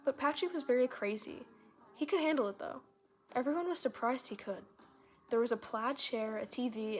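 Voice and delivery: put-on animated read-aloud of a child's tale; lively storybook narration; story reading.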